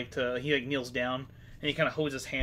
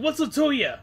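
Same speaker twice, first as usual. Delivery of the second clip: brigand voice; 5 semitones higher, 5 dB louder than usual. Acted. Brigand sneering at the party.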